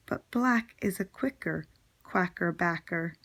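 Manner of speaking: clearly articulated tongue-twister rhyme; teacher reciting a playful rhyme; poem recitation. Acted. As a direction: read it out in measured phrases for first graders. Reads a poem aloud.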